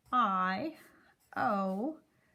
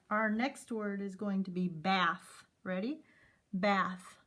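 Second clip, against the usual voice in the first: ordinary talk, nothing marked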